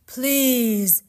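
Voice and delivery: high, loud, drawn-out plea; pleading ghosts. Acted. Ghosts beg the living Orpheus, pleading.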